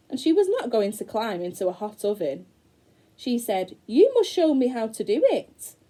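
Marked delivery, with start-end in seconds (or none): 3.8-5.7 put-on higher, louder girl voice; Gretel's voice. Gretel tricking the witch, higher girl voice. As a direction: play innocent like a clever little girl.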